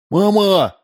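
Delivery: put-on very high boy's call for mum; lightly shouted, high-pitched child's cry. A narrator's reading. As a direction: call for mum like an excited kid. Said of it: "закричал сын Удалова, Максимка".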